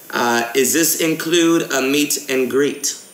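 casual fake English accent for a prank call; put-on English accent. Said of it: "gaming in an English accent".

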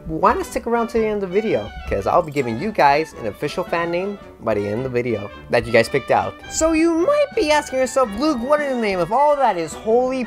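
ordinary delivery

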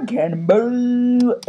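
cannonball yell. Acted. Calling the trick name.

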